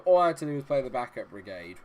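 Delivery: normal talking voice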